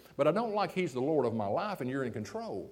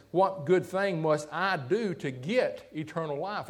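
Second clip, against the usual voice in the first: slow, leaning on every word like he must earn it; eager, insistent asking; slower than usual. Retold or imitated. Preacher mimicking the young man demanding salvation, slow and insistent. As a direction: draw the question out, hungry to earn it. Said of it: "Like he's got to get it".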